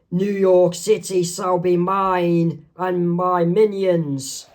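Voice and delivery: slow, mildly yelled proclamation; half-shouted villain boast; villain's yell. Acted. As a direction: declare it slowly like a cartoon tyrant. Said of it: "and he's yelling".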